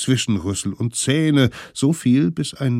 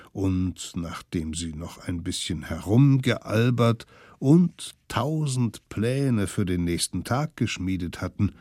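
usual speaking voice

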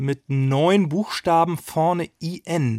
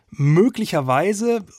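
slow hesitant; 4 semitones higher, slower than usual. Acted. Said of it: "und ich sage nicht, dass es so ist".

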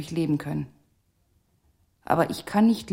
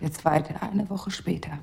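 whisper; 2 semitones lower, 5 dB quieter than usual. Acted. Doll Ria whispers her story.

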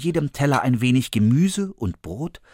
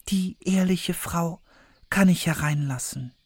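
Snow White thinking; 6 semitones higher, 4 dB quieter than usual. A narrator's reading. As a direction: muse to herself trustingly. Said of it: "dachte Schneewittchen".

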